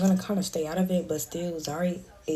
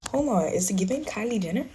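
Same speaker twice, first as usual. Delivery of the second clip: excited shout; 3 semitones higher than usual. Real, not acted. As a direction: call it out excitedly. Sudden excited call.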